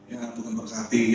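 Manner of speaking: soft, low retold prayer; murmured prayer. Loan collector praying with a debtor, very softly. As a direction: pray it quietly, half to yourself.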